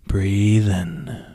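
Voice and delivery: cue the inhale clearly; breathe in cue. Shown as a demonstration. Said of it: "When I say breathe in".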